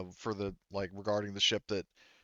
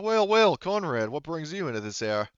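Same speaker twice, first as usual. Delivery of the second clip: Garvey; 7 semitones higher, 5 dB louder than usual. Acted. Bartender looking up from polishing a glass, in character greeting. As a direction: greet a customer, pitch swooping up then settling. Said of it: "you catch Garvey in the middle of".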